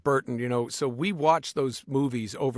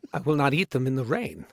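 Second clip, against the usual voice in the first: laughing whisper. Pretend.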